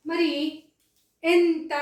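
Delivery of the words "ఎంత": ఎంత louder and higher, in two beats; plain dental t ending ఎంత; unaspirated ta. Shown as a demonstration. Teacher asking how it is pronounced, emphatic unaspirated ఎంత. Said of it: "దీన్ని ఏమని పలకాలి?".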